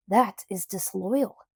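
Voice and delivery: slow, emphatic indignant call; a touch of a shouted rebuke; mild shout. Acted. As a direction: loyalist merchant shouting at the storekeeper. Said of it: "shouted the man".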